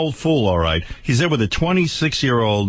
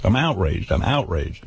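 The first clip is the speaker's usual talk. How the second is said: 1 fading outrage; 4 semitones lower than usual. Real, not acted.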